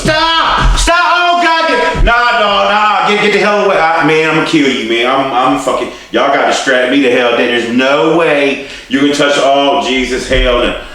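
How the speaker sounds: very high, loud pained screams; screaming in pain. Retold or imitated. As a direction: howl as if your foot is being yanked. Retold agony as shoe pulled off.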